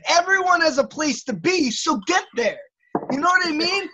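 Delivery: real heated rant, pitch climbing; worked up. Real, not acted. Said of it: "look how mad you are".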